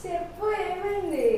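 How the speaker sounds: exasperated questioning; insistent demand. Real, not acted. Demanding answer from laughing sister.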